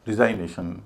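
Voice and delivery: "रिजाइनेशन" with the full "जाइ" of resign; wrong pronunciation. Shown as a demonstration. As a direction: say "रिजाइनेशन" as resign plus -ation. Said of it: "उनको वैसा नहीं बोलते". ("रिजाइनेशन" में "जाइ" का पूरा, गलत उच्चारण)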